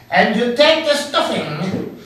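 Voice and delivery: lightly voiced TV chef; Julia Child impression. Co-host imitating Julia Child, lightly, with a laugh. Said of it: "she sounded really like, you know, she said".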